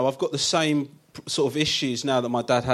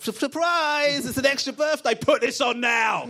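put-on spring it on the kid like a party host; playful shout of surprise to his son; mock surprise; 12 semitones higher than usual.

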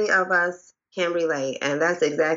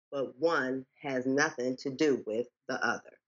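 softer, winding down to the final line; fading poem ending; 7 dB quieter than usual. Acted. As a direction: let the recital fade out softly.

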